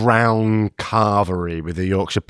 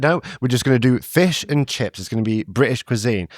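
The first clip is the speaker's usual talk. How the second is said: lightly acted stubborn cook, slightly raised pitch; mock insistence; 3 semitones higher than usual. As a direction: put your foot down, playfully. Imagined food-truck cooks arguing.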